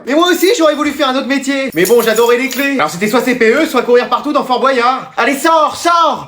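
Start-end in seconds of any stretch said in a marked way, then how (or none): 5.2-6.3 sharp higher command to get out; ordering out. Acted. Colleague orders the teacher out, exasperated command. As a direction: order them out, pitch climbing.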